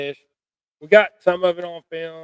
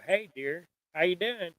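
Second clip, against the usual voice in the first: soft greeting; 3 semitones higher, 9 dB quieter than usual. Retold or imitated. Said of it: "I could go".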